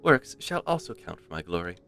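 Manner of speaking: a hint of a regal lady granting favour; posh royal voice. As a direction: read it as a haughty queen, lightly. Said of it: "posh royal voice".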